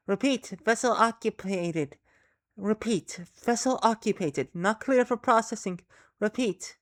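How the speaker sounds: stilted alien radio message. Acted. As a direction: speak like a distant transmission. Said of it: "that voice on the radio".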